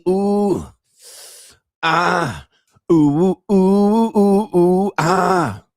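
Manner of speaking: loud, high oohs and ahs; hammed-up moaning, held out long; mock sex moans. Streamer showing viewers what he means by real sex, mock moaning. Imitates sex sounds mid-rant.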